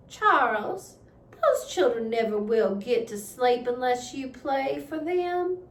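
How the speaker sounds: a hint of a gently urging mother; lightly voiced Ma asking Pa to play. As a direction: coax him to calm the children. Ma asks Pa to play.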